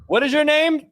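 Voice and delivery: high, rising mock disbelief; appalled hesitant question. Defendant meets public defender, appalled question. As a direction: ask haltingly, pitch climbing on the last word.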